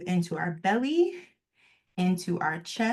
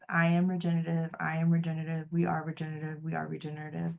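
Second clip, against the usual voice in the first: fading affirmation mantra; 4 dB quieter, faster than usual. Retold or imitated. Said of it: "I would spiral all the way back up with".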